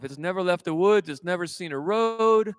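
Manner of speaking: ordinary talk, nothing marked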